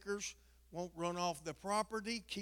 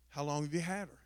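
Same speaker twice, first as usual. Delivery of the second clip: lightly voiced vet, a lower pitch; imitating the vet; 3 semitones lower, faster than usual. Vet asks owner about the dog, lightly imitated. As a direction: drop it slightly for the vet's question. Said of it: "The vet comes in".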